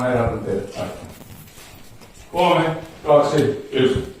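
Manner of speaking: measured wake-up count; hypnotic countdown. Acted.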